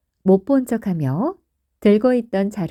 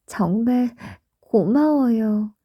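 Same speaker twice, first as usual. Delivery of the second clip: grateful wife; 2 semitones higher, slower than usual. Acted. Borumdal thanks Gogo for lighting the fire, lightly voiced slow thanks. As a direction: thank him slowly and gently. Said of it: "라고 말했어".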